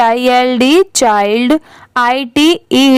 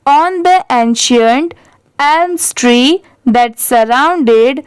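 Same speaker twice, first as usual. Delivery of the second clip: बहुत धीरे, शब्द-शब्द रुककर कहानी पढ़ना; सीखने वालों के लिए धीरे-धीरे अंग्रेज़ी पैराग्राफ पढ़ें; धीमा पाठ; much slower than usual. Shown as a demonstration. Teacher reads story paragraph aloud. (Teacher छात्रों के लिए पैराग्राफ बहुत धीरे पढ़ती है)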